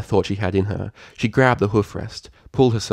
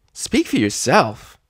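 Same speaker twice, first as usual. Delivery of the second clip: slow retort; 5 semitones higher, slower than usual. Acted. Filly retorts to friend.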